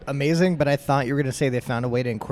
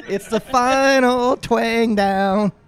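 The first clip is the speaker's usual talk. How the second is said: cowboy drawl; 9 semitones higher, 7 dB louder, much slower than usual. Pretend. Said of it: "Just do your best cowboy impression".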